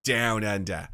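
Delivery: low, soft put-on Australian; mock Australian accent. Host echoing co-host's joke about Australians, mock Australian accent. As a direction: echo it with exaggerated Australian vowels.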